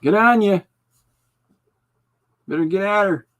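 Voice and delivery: hammed-up loud Canadian hick accent. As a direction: belt it like a Letterkenny farmhand, Canadian accent. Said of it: "That's a Northern hick expression".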